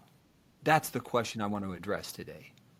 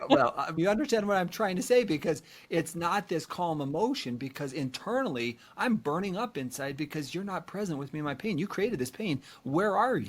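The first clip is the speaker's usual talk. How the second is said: higher, pleading anger building to a cry; more emphatic anger; 5 semitones higher than usual. Retold or imitated. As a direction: redo it with more heat, rising high. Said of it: "do that a little more emphatically".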